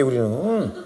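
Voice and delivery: ordinary talk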